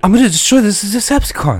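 dutiful repeat. Acted. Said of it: "Say it again".

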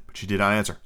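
usual speaking voice

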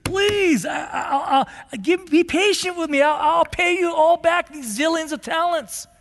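high, pleading voice that almost cracks; desperate begging. Retold or imitated. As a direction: beg on your knees for your life. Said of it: "starts saying".

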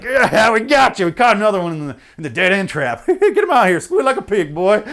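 high, loud leering hillbilly taunt; hammed-up backwoods menace, cackling; Deliverance hillbilly. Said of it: "the guys from, like, Deliverance".

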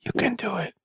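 showing the rep the voice to use; silly demo voice. Shown as a demonstration. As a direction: say the catchphrase in a funny voice. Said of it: "say it like this".

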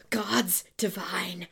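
breathy dramatic whisper. Acted. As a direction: hiss it like a vengeful secret.

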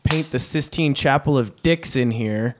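yelled from another room. Pretend. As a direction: call it out as if through a wall. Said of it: "I'm gonna yell from the other room".

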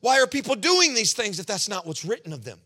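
crying out why to God; pleading outcry. Retold or imitated. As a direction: demand answers from God. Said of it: "I said".

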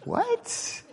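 high unvoiced disbelieving what; a thin, breathless squeak of confusion; baffled what. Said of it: "I was like".

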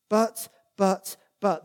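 "But, but, but" each punched firmly; emphatic buts. Shown as a demonstration. Preacher showing Paul's repeated word, emphatic stress. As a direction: drive home each "but" like a drumbeat. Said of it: "it's absolutely emphatic".

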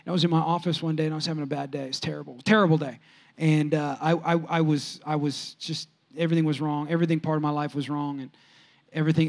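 low and soft, trailing into the memory; low, subdued recounting. Real, not acted. Pastor recalling a terrible day at the office, low and subdued. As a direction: drop the voice right down, downcast.

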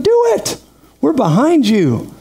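sudden high, bright "Do it", then slow and firm; eager encouragement. Retold or imitated. Pastor urging a member to start a ministry, eager and high. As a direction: cheer them on with a leap up in pitch.

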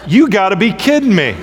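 half-laugh, can't believe it; laughing disbelief. Retold or imitated. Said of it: "I go".

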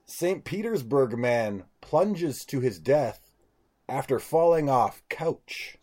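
slow, deliberate headline delivery; headline read. Acted. Podcaster reads odd news to friends, slow headline read. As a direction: space out each phrase of the headline.

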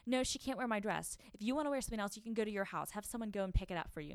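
lightly voiced spoiled sister snapping no; bratty Kylie. Younger sister refusing to lend her dress, mock bratty. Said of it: "Kylie's telling her assistant".

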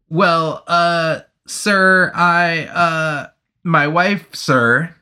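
timid soldier addressing the officer; twitchy nervous soldier. Acted. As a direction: stammer it out in short bursts. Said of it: "He was twitchy and breathed".

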